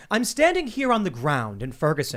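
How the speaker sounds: lightly put-on live-hit correspondent; mild mock TV reporter in Ferguson. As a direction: mimic a dramatic field reporter. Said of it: "hear the other people be like".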